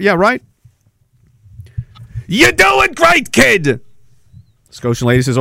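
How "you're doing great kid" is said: high, slow sarcastic cheer; mock cheer. Host mocking officials, sarcastic high-pitched cheer. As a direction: pat them on the head like a child, much higher and slow.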